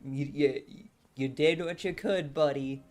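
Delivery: drawn-out, half-hearted consoling; mock comforting with grudging approval; placating imitation. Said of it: "and just be like".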